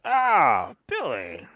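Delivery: lightly voiced drow, pitch swooping up and down; a hint of a genial drow host, bursting into the greeting; drow greeting an old acquaintance.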